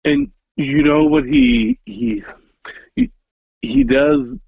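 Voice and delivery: high-pitched, stammering with excitement; bursting to tell a friend, tripping over he; excited. Real, not acted. Telling a friend about Dave, eager and excited.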